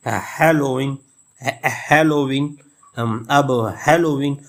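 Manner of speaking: "हेलोवीन" slowly, HAL long and strong, lo-ween lighter; first-syllable stress. Shown as a demonstration. Teacher demonstrating dactyl meter, first syllable stressed. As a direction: lean on the "हे" of "हेलोवीन", ease off the rest. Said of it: "हाल को भी मैंने लंबा पढ़ा और strong पढ़ा".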